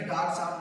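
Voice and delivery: डॉक्टर साहब reduced to "daak-saab"; casual "daak saab" for डॉक्टर साहब, the "tar" dropped; colloquial contraction. Shown as a demonstration. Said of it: "सीधे सीधे डॉक्टर साहब बोल देते हैं".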